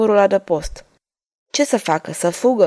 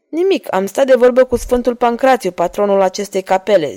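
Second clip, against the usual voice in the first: smiling. Acted. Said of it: "zise el zâmbind".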